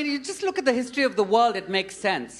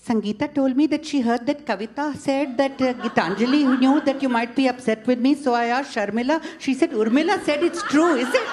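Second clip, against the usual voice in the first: lightly voiced gossiping Indian auntie, rattling faster through the names; breathless chain of hearsay, rising at the end; a hint of a meandering gossip; roundabout Indian gossip; 3 semitones higher, faster than usual. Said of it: "This is how Indians there say this".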